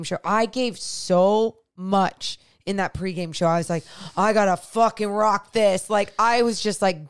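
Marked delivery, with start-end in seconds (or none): 4.2-5.9 louder, psyching yourself up; pumped-up quote of oneself; retold pep talk. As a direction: retell your fired-up self-talk. Retold self pep talk, fired up.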